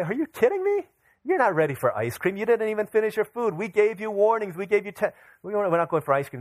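high-pitched incredulous scolding, acted out; mock-outraged telling-off of the kids; exasperated parent. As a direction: retell a parent's disbelief, pitch jumping up. Exasperated parent refuses children ice cream.

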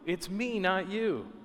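hushed echo of God's cry; retold scream, softened. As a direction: repeat God's cry softly, pulling the volume back. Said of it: "God is screaming".

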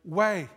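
"way." lifted and pushed out firmly; stress on "way". Shown as a demonstration. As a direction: land hard on "way." as the key word. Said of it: "to emphasize the word".

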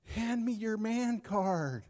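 teasing, a bit high and drawn out; playful mock-stern demand. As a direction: rib him like a buddy. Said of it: "I said".

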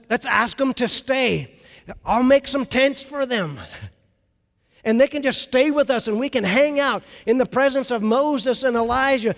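can't contain the joy; excited Peter. Retold or imitated. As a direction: Peter begging to keep Moses and Elijah, excited. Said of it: "He's excited".

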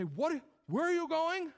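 high, incredulous mock outcry; shocked relatives. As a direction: pitch it way up in mock disbelief. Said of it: "non-believing relatives in your life".

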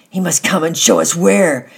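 loud, high, harsh voice not her own; harsh hoarse voice. A narrator's reading. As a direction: speak in a strange, hardened voice. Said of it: "in a harsh, a hoarse voice".

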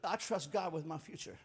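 quietly assured, dropping in pitch; settled peace. Acted. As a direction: say it settled and trusting. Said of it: "you just sit down and say".

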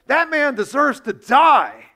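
retold king exploding in rage, slowly; livid outburst. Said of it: "David is livid".

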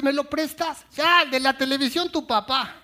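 high mock child asking. Daughter asking to borrow the remote, high child voice. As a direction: plead sweetly like a girl.

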